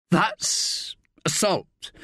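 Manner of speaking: slow whisper; whispered aside. A narrator's reading. Rick admitting the charge to Staff, whispered. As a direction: breathe it out under the breath. Rick conceding under breath.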